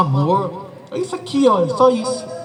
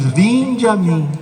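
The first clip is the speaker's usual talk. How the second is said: convite acolhedor; 3 semitones lower than usual. Pretend. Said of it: "é aquele que diz".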